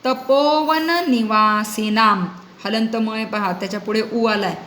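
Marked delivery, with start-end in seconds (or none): 0.1-2.2 slow, stretched Sanskrit recitation; sandhi-split recitation. Shown as a demonstration. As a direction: read it out slowly for students to follow. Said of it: "पुनः एकवारं पठामि". (संधिविग्रह करून सावकाश पठण)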